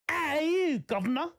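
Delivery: high, hammed-up Australian "how are you, governor"; mock Australian greeting; Australian accent.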